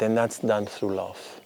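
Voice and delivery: quiet and slow, like a confided truth; soft, slow solemn line. Retold or imitated. Old priest tells the pilgrim gently, softly and slowly. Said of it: "and he said".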